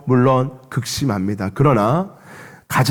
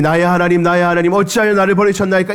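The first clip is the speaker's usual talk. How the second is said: higher, fast mock of the cry; mocking echo; 5 semitones higher, faster than usual. A bystander mocking Jesus's cry, higher and fast. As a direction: toss the plea back like a jeering bystander. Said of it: "주님을 조롱합니다".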